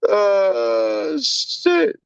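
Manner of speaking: wheezing through laughter; 웃다가 눈물이 날 지경으로; laughing till crying. Real, not acted. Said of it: "I'm crying".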